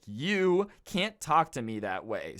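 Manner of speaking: slow, prim mock protest; lightly voiced entitled customer; mock indignant Karen. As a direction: put on a haughty offended voice. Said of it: "try to be like".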